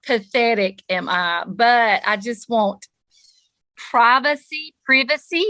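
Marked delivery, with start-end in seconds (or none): 3.8-5.4 raised, prim formal pronunciation; mock-posh privacy. Shown as a demonstration. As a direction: say it like a proper lady. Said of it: "as I like to say in my formal voice".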